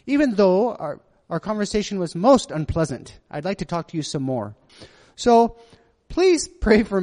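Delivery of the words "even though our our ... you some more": put-on not very good British accent. Preacher reads a woman's text aloud, in an amateur British accent. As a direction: have another go at a British accent. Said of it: "My British accent?".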